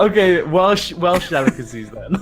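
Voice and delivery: laughing. Real, not acted. Laughing correction after teasing.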